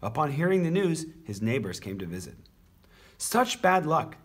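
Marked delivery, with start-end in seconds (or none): 3.2-4.2 drawn-out, higher, louder commiseration; sympathetic. A narrator's reading. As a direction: commiserate slowly and emphatically. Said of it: "they said sympathetically".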